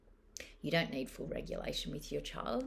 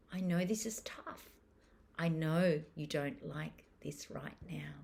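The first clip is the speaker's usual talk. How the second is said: put-on calm reassuring to child. Shown as a demonstration. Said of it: "we're gonna say".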